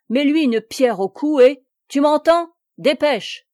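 loud, high order that keeps rising; captain's loud order; commanding shout. A narrator's reading. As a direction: drive the servant on with urgency.

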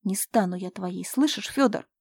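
feverish blurt. Acted. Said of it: "лихорадочно выпалила".

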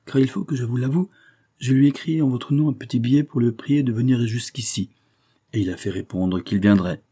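lively, self-assured man breaking news; wry, assured adviser. Acted. Adviser admitting he has summoned the friend, assured. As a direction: announce it breezily, in full control.

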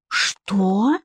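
indignant rising question; a touch of outrage. A narrator's reading. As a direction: ask it in offended disbelief. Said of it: "возмутилась Вика".

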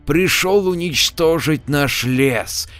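annoyed dismissal. Acted. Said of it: "недовольно отмахнулся".

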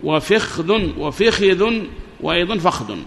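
slowly vary فخذ: fikhdhun, fikhidhun, fakhdhun; change the vowels on each فخذ: i, i-i, a; contrasting dialect forms. Shown as a demonstration. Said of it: "أربع لغات".

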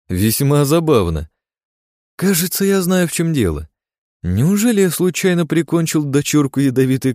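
high, loud sinister glee; cackling hell torturer. Acted. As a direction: purr with wicked joy. Gleeful realisation, maniac voice.

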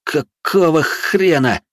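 slow, stunned hiss. A narrator's reading. Yars hissing in shock at the glowing eyes. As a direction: hiss it in disbelief. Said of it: "изумлённо прошипел я".

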